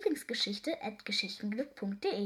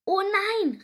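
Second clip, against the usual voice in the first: high, loud 'oh no'; big dismayed exclamation; alarmed cry; 10 semitones higher, 10 dB louder than usual. A narrator's reading. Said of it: "rief Seepferdchen nun".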